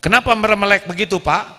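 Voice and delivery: fast, high, loud demand; mock wife scolding. Wife demanding an answer from her silent husband, high and loud. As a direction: snap at him to answer. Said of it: "wife scolding husband".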